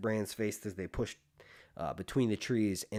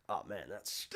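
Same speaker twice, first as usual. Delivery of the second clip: laughing disgust; 3 semitones lower, 6 dB quieter than usual. Real, not acted. Reacting to own fart.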